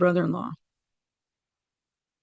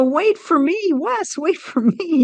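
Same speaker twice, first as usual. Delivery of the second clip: higher, calling after him; 9 semitones higher, slower than usual. Retold or imitated. Speaker calling after Wes heading to heaven, higher pleading call. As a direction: call to someone rushing away. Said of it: "And I go".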